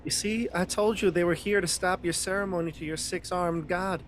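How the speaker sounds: high-pitched in-character insistence; insistent told-you-so. Acted. Character tells priest of the intruders, insistent told-you-so. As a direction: press the point to the priest.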